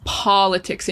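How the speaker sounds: "politics" with long stressed AH first; definitive AH sound. Shown as a demonstration. Teacher giving memory tip, "politics" with strong AH. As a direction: say "politics" as PAAH-luh-tics. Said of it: "very definitive ah sound".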